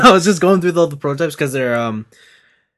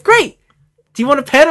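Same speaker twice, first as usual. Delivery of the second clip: bright, much higher chirpy voice; perky booth girl; 10 semitones higher, 7 dB louder than usual. Retold or imitated. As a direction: play a chipper saleswoman. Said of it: "and then she's like".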